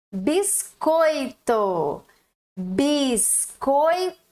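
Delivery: very slow "biscoito", bis-coi-to; syllable by syllable. Shown as a demonstration. Teacher splitting "biscoito" for the class. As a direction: drag "biscoito" apart slowly. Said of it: "Três pedacinhos".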